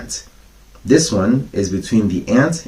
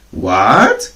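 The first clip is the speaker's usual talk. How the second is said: surprised; 3 dB louder than usual. Acted. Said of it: "cried the ants in surprise".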